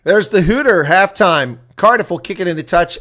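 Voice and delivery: excited call. Real, not acted. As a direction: announce the hooter with a lift. Halftime hooter call.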